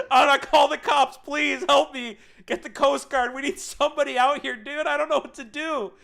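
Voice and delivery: high, loud hammed-up panic; mock desperate plea. Trapped driver begging housemate for help, mock panicked shouting. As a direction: cry out for rescue, comically over the top.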